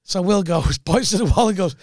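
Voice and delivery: usual speaking voice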